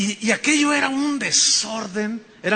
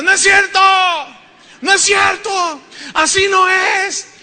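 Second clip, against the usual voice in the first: much higher, loud, shrieked protest; shouting wife; 11 semitones higher, 7 dB louder than usual. Retold or imitated. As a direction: heckle from the back like Socrates' wife. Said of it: "una mujer que gritaba desde atrás". (la esposa de Sócrates grita desde atrás, agudo y fuerte)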